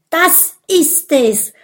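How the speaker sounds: high, loud cry of triumph; joyful call. Acted. Vampire finding the right blood, calling out joyfully. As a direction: call it out with delight. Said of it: "ruft er. Vor Freude".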